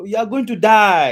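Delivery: loud preaching cry, DIE held out; emphatic warning. Real, not acted. Preacher confronting congregation's denial of death, loud emphatic warning. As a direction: hammer it home at full voice, loud on "die".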